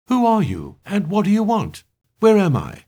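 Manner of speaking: high, urgent, panicky questions; near-panicked questioning. A narrator's reading. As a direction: fire off questions on the edge of panic. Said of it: "rushed out the questions in a slowly loudening voice".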